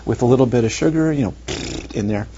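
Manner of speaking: high, eager, fawning host voice offering coffee; teacher mocks a friendly warden offering coffee, high and gushing; sugary friendly warden. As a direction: play the too-friendly jailer pushing drinks on you. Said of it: "The warden is just like".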